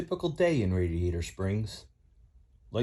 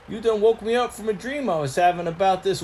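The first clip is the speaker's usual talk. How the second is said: higher, twangy country tow truck; lightly pitched-up country boy voice; folksy tow truck Mater; 9 semitones higher, 4 dB louder than usual. Acted. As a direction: play Mater the rusty tow truck, eager to spill news.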